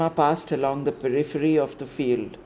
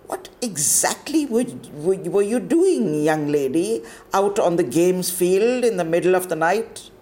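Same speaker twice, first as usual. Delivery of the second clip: stern warden; 4 semitones higher than usual. Acted. Warden interrogating pupil at night.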